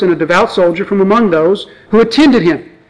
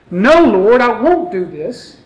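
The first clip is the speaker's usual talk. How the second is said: self-righteous Peter. Retold or imitated. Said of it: "You hear the self-righteousness in Peter's voice".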